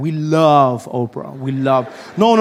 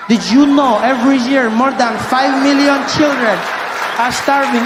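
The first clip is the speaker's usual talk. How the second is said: charity ad voice; 6 semitones higher, 5 dB louder than usual. Pretend. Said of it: "parody of charity ad".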